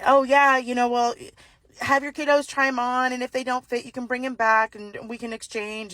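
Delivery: a hint of a chirpy, helpful shop clerk; smooth it over with mild customer-service cheer; lightly voiced polite cashier. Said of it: "trying to be, like, really polite".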